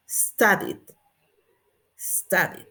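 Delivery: STUDIED as "sta-dit"; past -ed ending. Shown as a demonstration. Teacher repeating for students, past -ed ending. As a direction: close STUDIED on a short stop. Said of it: "¿cómo decimos?".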